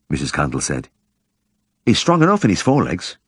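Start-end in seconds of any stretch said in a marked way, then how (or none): 1.9-3.2 high, gentle village woman; shy woman's voice. Acted. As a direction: lift the voice for the shy wife. Mrs Cundall voiced.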